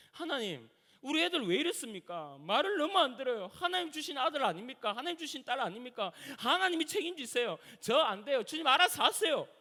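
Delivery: exasperated parent praying out a temper; venting at God. Retold or imitated. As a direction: protest to God, pitch climbing as you go. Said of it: "주님 앞에 성질 부리고요".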